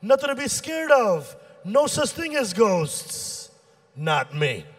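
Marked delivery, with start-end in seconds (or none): 0.0-3.5 lying parent. Acted. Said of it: "when a lying parent would have been like".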